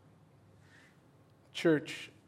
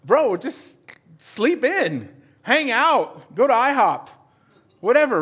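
dismissive buddy; 4 semitones higher, 4 dB louder than usual. Retold or imitated. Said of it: "They're gonna be like".

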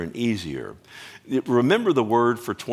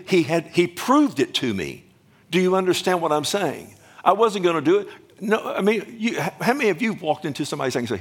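climactic preaching; 8 semitones higher than usual. Real, not acted. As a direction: preach it up to a full-throated peak. Preacher rising to full force.

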